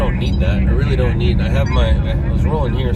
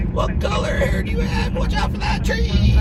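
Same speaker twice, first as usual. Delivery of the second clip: squeaky mock voice. Teasing troll in silly voice.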